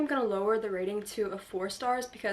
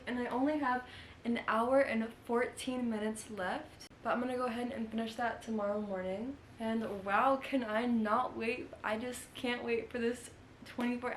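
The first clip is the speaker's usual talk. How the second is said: lisping through a retainer; soft lisp from a retainer; wearing a retainer; 4 dB quieter than usual. Real, not acted. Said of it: "I put my retainer in so I had the lisp".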